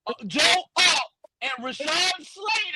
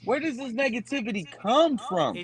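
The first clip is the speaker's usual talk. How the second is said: underwater. Real, not acted. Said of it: "you sound like you're underwater".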